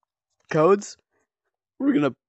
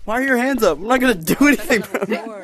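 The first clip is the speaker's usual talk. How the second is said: higher voice changer, a bit fast; pitched-up disguise voice; 7 semitones higher, 4 dB louder than usual. Pretend. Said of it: "I'm using a voice changer".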